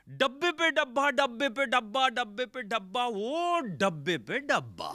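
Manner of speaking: high, sing-song recital of the line, slowing at the end; poet's recital. Retold or imitated. Poet reciting his one line to the crowd, sing-song. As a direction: chant it like a proud stage poet. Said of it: "उसने उसी line को दस पन्द्रह बार सुनाया".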